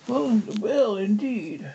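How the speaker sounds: indignant narrated outcry; crying out. A narrator's reading. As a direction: exclaim it as an offended mouse. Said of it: "cried the mouse".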